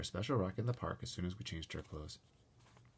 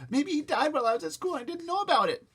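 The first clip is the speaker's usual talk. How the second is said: high, loud anxious worry; frightened thought; 8 dB louder than usual. Acted. Boy fearing his pet died, high frightened voice. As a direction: fret out loud in fear. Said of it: "I thought".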